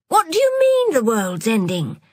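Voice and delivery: a touch of fear, high start; mild frightened question. Acted. Friend chasing after her, asking with a touch of fear. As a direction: ask it nervously. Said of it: "frightened already".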